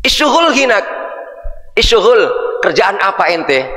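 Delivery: put-on high, pushy Arab-accented question; mock Arab street talk. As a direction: bark it like an Arab local. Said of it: "Tapi kalau istibgha". (logat Arab pasaran, nada tinggi)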